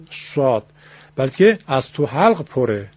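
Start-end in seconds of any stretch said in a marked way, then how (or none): 0.1-0.6 شاد said with lips, a whistled sh; the mistaken lip-made شاد; wrong shaad. Shown as a demonstration. Teacher showing the error to avoid in ص. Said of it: "با لبم نگفتم شاد".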